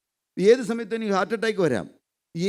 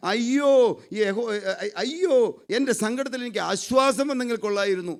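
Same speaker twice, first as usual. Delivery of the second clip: wailing lament. Acted. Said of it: "അയ്യം വിളിച്ചു കയറണേ".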